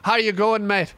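light imitated Irish accent; friendly bloke with a hint of Irish accent. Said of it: "he was Irish too".

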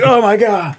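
high-pitched mock dismay; retold disgusted horror. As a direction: recoil in exaggerated horror while retelling. Retold reaction to filth splashing back.

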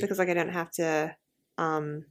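casual general American; generic American accent. Shown as a demonstration. Host explaining to co-host, keeping the American accent. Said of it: "talk in my Generican".

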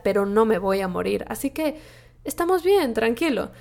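reassuring, sing-song pitch jumps on "hay" and "estamos bien"; calm a scared friend down; gently telling your brain it's all fine; soothing the brain. Retold or imitated. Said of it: "explicándole a tu cerebro como".

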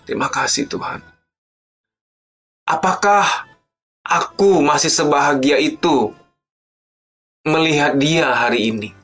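a gentle, reflective prayer to God; softly asking God, almost whispered at times; quiet prayer. Shown as a demonstration. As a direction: pray it softly, remembering the birth. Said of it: "coba ngomong begini".

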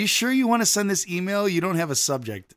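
high, brisk mock warning prompt; computer prompt voice. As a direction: read it like a nagging popup. Mimicking email prompt warning.

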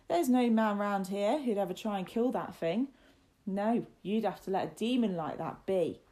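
emphatic country-lad warning, starting loud; knowing Martin. Acted. Lad lectures his young master on the demon, knowing. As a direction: warn with teasing authority, easing off at the end.

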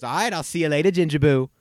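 high, loud affectionate goodbye; cheery old lady farewell. Retold or imitated. Old lady drives away calling the cashier Ginger Boo, loud affectionate goodbye. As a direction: sing out the nickname fondly. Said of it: "She goes".

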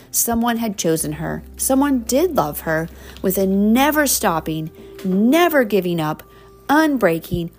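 warm storybook reading; reading to children. Acted. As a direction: read it like a bedtime story. Reading picture book to child.

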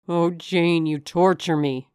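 loud cry of a tormented lover; anguished exclamation. A narrator's reading. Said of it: "he exclaimed".

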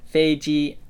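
飞机 held high and level; first tone. Shown as a demonstration. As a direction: demonstrate 飞机 on a high, even pitch. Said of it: "uses that same 非".

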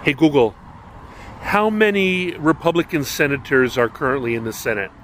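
talking to voice assistant. Real, not acted. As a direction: address the smart speaker clearly. Asking the voice assistant.

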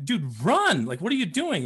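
retold yell. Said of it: "I'm, like, screaming".

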